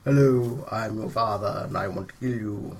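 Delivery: low quiet sinister father; imagined father. Acted. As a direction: calmly threaten as the father. GM voices the father figure.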